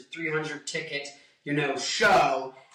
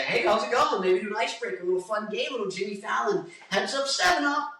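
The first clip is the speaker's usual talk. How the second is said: lightly voiced upbeat host, pitched up; mock talk-show patter, higher than usual; show host chatter; 5 semitones higher, faster than usual. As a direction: play at being a chummy host. Voicing a show host's chatter.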